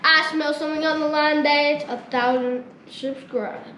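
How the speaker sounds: silly put-on voice. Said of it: "if you guys don't like the voice".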